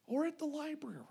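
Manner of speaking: hushed aside, library-quiet; whispered joke. Acted. Preacher joking about the library, whispered.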